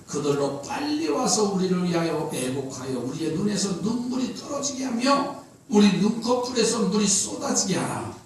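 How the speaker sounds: soft scripture reading, falling away at the end. Acted. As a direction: read the verse out quietly and solemnly. (차분하고 나직한 성경 낭독)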